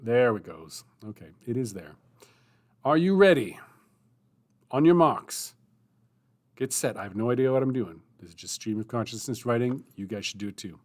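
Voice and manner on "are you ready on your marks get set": loud, higher start call; race starter. Real, not acted. The speaker starting the writing sprint for viewers, loud race call.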